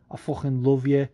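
put-on Scouse dialect; fake Scouse accent. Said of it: "I'll do a fake Scouse dialect".

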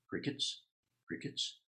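hushed whisper for the silence; whispered crickets. Shown as a demonstration. Preacher whispering to the congregation about the silence. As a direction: breathe it like empty silence. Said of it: "You see the humor?".

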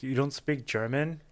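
slow, rising pretend disbelief; mock incredulous question. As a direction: ask slowly, as if astonished. Acting out a presumptuous question.

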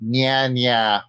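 put-on childish nya nya teasing; sing-song taunting. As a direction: taunt it like a playground bully. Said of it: "I had to go with".

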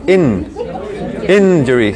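"Injury" starting with a short, E-like "In"; English short I. Shown as a demonstration. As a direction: model "Injury" with the small English I. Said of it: "en inglés es más cerrada".

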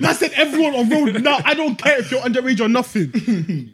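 mock general's order. Mo voiced barking orders.

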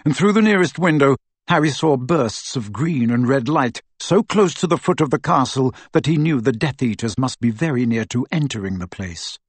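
plain reading voice

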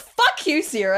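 retold flash of anger, dropping on the name; mock outburst. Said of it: "I just went off of myself at her".

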